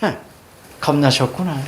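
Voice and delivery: wrong, unsympathetic smirking read; snort, then a low, knowing jab; mocking sneer. Shown as a demonstration. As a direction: scoff "흥", then say it lightly sneering. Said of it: "이거 아니야".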